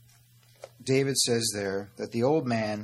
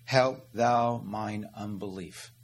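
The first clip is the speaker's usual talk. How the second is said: crying out to God; slower than usual. Acted. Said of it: "you who believe cry".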